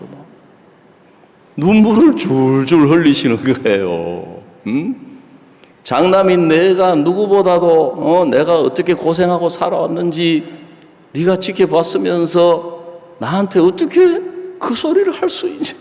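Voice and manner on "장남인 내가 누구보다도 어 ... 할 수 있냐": retold indignant reproach, higher pitch; imitating angry mother. Mother reproaching her eldest son who watched her suffer, imitated anger. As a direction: play a wronged mother scolding, without real tears. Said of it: "화를 내시면서 막 눈물을 흘리시는 거예요".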